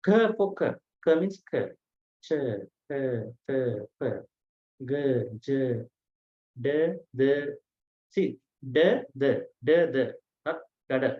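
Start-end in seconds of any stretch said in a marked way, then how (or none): 0.0-0.3 K pushed out high and loud with breath; wrongly aspirated k. Shown as a demonstration. Teacher warning students off this, K heavily aspirated. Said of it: "Don't say". 2.2-10.1 ch, k, t, p, g, j, d without a puff; unaspirated consonants. Shown as a demonstration. Teacher drilling first and third letters, ch, k, t, p, g, j, d unaspirated.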